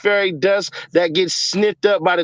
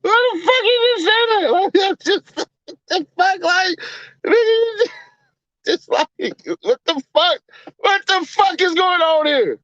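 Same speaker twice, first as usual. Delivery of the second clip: laughing disbelief; 13 semitones higher than usual. Real, not acted. To the chat about a comment, laughing in high disbelief. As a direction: squeal it out in stunned laughter.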